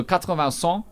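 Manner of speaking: "quatre-vingts" and "cent" said the French way; French numbers demo. Shown as a demonstration. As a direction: show off the French counting. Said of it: "quatre-vingts means four twenties".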